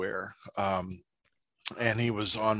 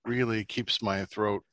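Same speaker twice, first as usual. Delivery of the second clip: slow pitchman voice; drawn-out sponsor read; mock ad read; 2 semitones lower, slower than usual. Mock product endorsement.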